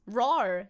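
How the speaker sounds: mock roar. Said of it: "He, he roars".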